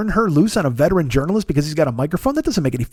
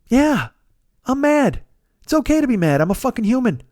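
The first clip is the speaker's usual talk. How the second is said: higher-pitched, halting mock retort; exasperated admission; 5 semitones higher than usual. Answering online trolls who ask if he's mad, exasperated. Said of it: "And I'm gonna go".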